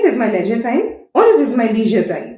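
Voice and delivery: it is my leisure time, slowly twice; slow model sentence. Shown as a demonstration. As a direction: read both versions slowly. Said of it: "British English में".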